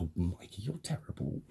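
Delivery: imitating a neighbour's soft, teasing reproach; hushed mock scolding. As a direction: scold very softly, as if scandalised.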